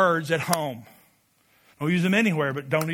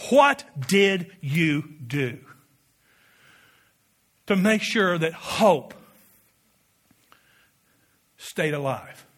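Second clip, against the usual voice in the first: voice of God; 3 semitones lower, slower than usual. Acted. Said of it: "God looks at me and you and says".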